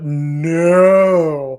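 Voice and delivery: loud, long drawn-out no; mock indignation. Co-host laments missing Queen Doudrop, mock-outraged. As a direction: stretch the no into a swelling protest.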